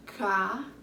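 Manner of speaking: "Cavalo" split as ca, va, lo with long gaps; syllable by syllable. Shown as a demonstration. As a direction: count out each beat of "Cavalo". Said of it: "Três sílabas".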